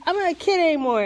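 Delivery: high-pitched mock protest; imagined viewer's objection. Crafter voicing a reluctant viewer, mock objection. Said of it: "So even if you're like".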